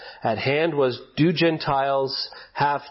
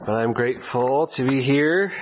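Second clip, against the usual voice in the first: sick, nasal, blocked-nose voice. Real, not acted. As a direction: speak through a stuffy nose. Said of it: "endure my nasally voice".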